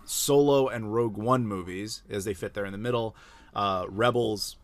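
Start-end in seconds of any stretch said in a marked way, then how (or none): 3.5-4.6 a burp slipping into the word. Real, not acted. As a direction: talk through a small burp. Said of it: "excuse me, I'm burping".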